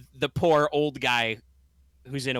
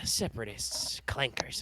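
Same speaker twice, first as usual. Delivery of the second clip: whisper yelling; 6 dB quieter, slower than usual. Acted. Old man hushes about droids.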